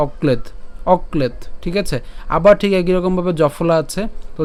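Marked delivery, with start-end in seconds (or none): 0.1-1.4 "অক্লেদ" as ok-led; careful "অক্লেদ" with no vowel after দ; pronunciation demo. Shown as a demonstration. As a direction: teach "অক্লেদ", closing on the d. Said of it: "এই দ পর্যন্ত আমরা উচ্চারণ করছি".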